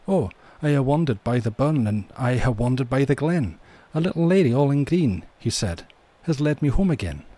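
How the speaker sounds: lifted, ringing Scottish verse; Scottish accent. Acted. Laddie tells of his wandering, Scottish accent. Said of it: "do this in a Scottish accent".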